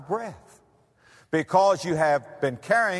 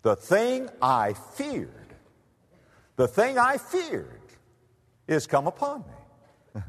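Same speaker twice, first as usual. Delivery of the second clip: lamenting Job; 5 semitones higher, slower than usual. Retold or imitated. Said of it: "Job said".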